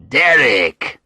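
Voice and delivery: loud, hearty greeting; friendly. A narrator's reading. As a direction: call the name out like a friend arriving. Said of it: "a friendly voice said".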